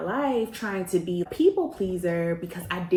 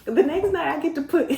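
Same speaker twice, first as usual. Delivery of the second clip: laughing; 8 semitones higher, 4 dB louder than usual. Real, not acted. Laughing retelling.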